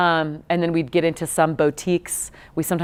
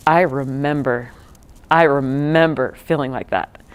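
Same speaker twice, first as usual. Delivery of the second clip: reflective tone; 3 semitones lower than usual. Retold or imitated. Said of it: "in a very reflective tone".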